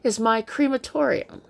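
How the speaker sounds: high-pitched acted exclamation; sudden cry. A narrator's reading. Narrator announces the derelict boat as crematorium, sudden cry. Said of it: "said I, with a sudden cry".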